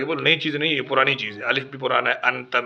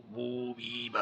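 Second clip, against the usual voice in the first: reverse drill; 12 dB quieter, much slower than usual. Shown as a demonstration. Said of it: "ایسے بھی آنا چاہیے".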